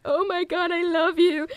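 high gushing excited voice. Retold or imitated. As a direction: squeal it like an overjoyed fan. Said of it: "he was like".

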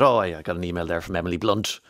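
offhand, understated retelling; imitating a matter-of-fact author. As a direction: mention it casually, as if nothing special. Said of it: "very matter-of-factly talking about".

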